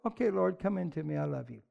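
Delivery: hushed prayer. Retold or imitated. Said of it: "you just go".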